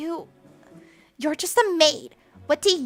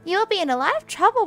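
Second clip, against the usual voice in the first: raised, superior warning ending in a dropped sneer on maid; haughty threat; 9 semitones higher, 7 dB louder, faster than usual. Acted. Spoiled girl threatens the maid, haughty and sneering. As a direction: lord it over her.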